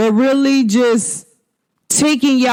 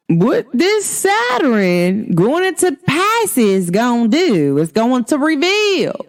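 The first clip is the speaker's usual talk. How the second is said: country voice; slower than usual. Shown as a demonstration. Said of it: "my country voice".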